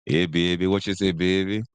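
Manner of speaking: put-on New Orleans accent. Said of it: "And then New Orleans".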